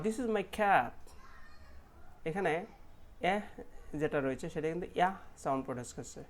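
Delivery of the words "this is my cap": each word slow and clear; slow sentence demo. Shown as a demonstration. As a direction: read it out slowly for learners. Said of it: "সেন্টেন্সগুলিতে দেখে নিচ্ছি".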